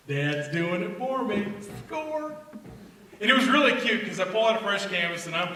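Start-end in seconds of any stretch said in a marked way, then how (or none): 0.1-1.5 sly daughter. Retold or imitated. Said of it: "what my daughter heard". 1.9-2.4 triumphant score. Retold or imitated. Daughter triumphant.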